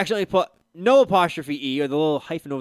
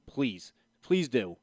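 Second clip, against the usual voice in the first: slow, quieter mock invitation; Mark Cuban daring; 7 semitones lower, 7 dB quieter, much slower than usual. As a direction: dare them to come after him, slowly. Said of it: "He goes".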